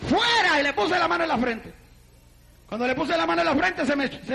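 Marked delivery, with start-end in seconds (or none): 0.1-0.6 higher, sudden retold command; retold exorcism command. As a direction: order the demon out, as retold. Retells casting out a demon. (orden de expulsión imitada, más aguda)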